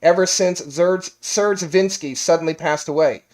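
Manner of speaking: measured storyteller reading aloud; game master narration. Acted. Game master tells players the backstory, storytelling narration.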